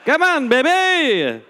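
seductive tease. Pretend. Teasing after weird name.

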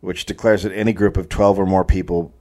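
measured, read-aloud storyteller delivery; story narration. A narrator's reading. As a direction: narrate the tale from the page.

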